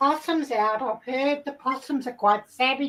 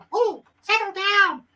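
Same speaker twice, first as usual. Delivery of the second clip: self-calming, still excited; 5 semitones higher than usual. Acted. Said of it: "I get all excited".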